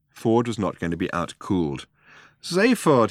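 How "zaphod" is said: drawled. A narrator's reading. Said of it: "he drawled".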